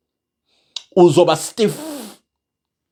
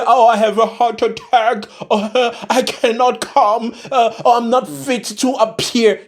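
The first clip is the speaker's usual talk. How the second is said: higher, feeble mock-sick whine with little groans; faking sick politician; 4 semitones higher than usual. Mocking corrupt officials who dodge trial, whiny fake sickness. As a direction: play a crooked official pretending to be too ill for trial. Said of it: "they're gonna act sick and say".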